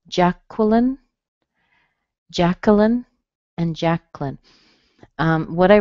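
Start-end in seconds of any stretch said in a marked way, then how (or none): 0.1-1.0 Jacqueline with a clear "kwuh" in the middle; three-syllable Jacqueline. Shown as a demonstration. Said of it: "So these are all possible". 2.3-3.0 Jacqueline with no w, middle "kuh"; three-syllable Jacqueline. Shown as a demonstration. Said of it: "So these are all possible". 3.7-4.4 Jacqueline squeezed to JACK-lin; two-syllable Jacqueline. Shown as a demonstration. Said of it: "So these are all possible".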